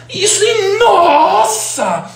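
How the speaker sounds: very high, hugely stretched vowels; hammed-up impression of an impassioned speaker; Clóvis de Barros. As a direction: sing out each word in theatrical wonder. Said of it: "E ele fala".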